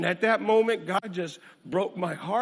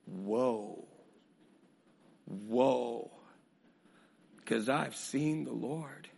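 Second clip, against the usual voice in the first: low, soft, drawn-out woe; Isaiah broken before the Lord; hushed Isaiah; 7 semitones lower, 9 dB quieter, slower than usual. Retold or imitated. Preacher voicing Isaiah, soft and undone. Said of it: "He's going".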